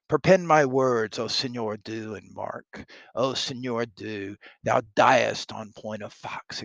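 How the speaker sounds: lightly hammed-up threat, punchy opening; blustering soldier. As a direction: bluster at your prisoner, theatrically. Reads Pistol threatening the French soldier.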